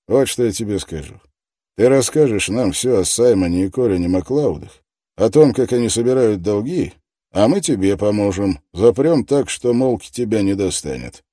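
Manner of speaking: loud, pushy interrogator; tough detective voice. Acted. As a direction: press him hard, loudly. Detective offers a deal.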